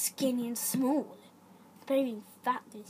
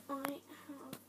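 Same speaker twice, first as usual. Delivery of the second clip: hushed threat with long pauses; quiet menace; 11 dB quieter than usual. Acted. Horse warns rival about its pack, quietly menacing.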